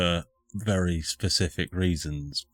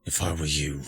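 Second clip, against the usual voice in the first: low, cold spirit growl; menacing spirit voice; 4 semitones lower than usual. Acted. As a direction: threaten them, voice dropped low. Hostile spirit refusing help.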